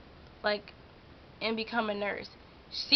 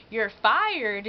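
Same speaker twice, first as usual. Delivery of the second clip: retold yell; 6 dB louder than usual. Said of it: "he literally yelled".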